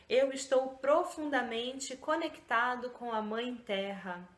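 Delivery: slow, deliberate affirmations with pauses between; calm guided affirmation read. Shown as a demonstration. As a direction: savour each affirmation as if meaning it. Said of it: "vou ler aqui".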